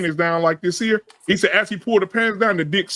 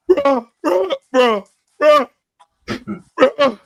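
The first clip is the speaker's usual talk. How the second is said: high, broken-up mock sobs; louder, high, tearful imitation; imitated crying; 8 semitones higher, 4 dB louder, much slower than usual. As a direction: act out a distraught friend, word by word. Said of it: "That nigga will cry his whole".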